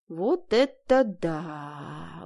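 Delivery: slow, drawn-out mock wonder; a touch of sarcastic awe; sarcastic admiration. A narrator's reading. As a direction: savour the irony. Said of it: "восхитилась я и съязвила".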